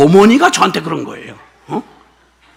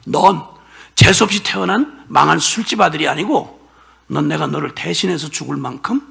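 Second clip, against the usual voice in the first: God's tender words; 5 semitones lower, 3 dB quieter than usual. Pretend. Pastor voicing God's love to himself, hushed and tender. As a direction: speak it as a loving whisper of reassurance.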